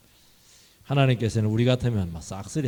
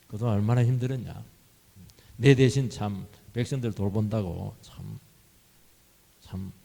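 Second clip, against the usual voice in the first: gentle consolation. Retold or imitated. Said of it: "모세를 위로합니다".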